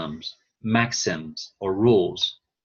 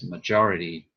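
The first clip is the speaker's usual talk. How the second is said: majority stressed on JOR; stress on second syllable. Shown as a demonstration. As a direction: shift the weight to maJORity. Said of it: "the emphasis changed".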